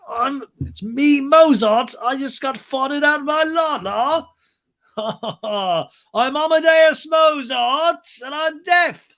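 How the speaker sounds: high, slow cartoon composer voice; loud, drawn-out goofy character voice; Mozart. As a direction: crow it in a silly, hammed-up falsetto. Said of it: "and it's like".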